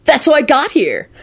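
happy, lilting stoner explanation; blissful dude. A narrator's reading. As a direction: recount it blissfully. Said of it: "Kenny finished blissfully".

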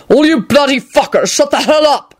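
high angry shout; shouting man. A narrator's reading. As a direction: yell at the whole room to shut up. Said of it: "Quentin shouted".

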